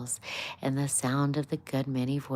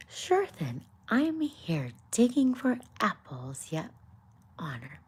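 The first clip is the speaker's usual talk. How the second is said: put-on a clumsy Irish gardener accent, pitched up; playful, badly faked Irish brogue; 4 semitones higher than usual. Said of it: "it was a bad accent".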